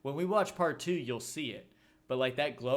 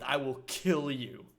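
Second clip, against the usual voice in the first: slow, drawn-out menace; slow mock threat; slower than usual. Imitating a school bully threatening a kid, slow mock threat.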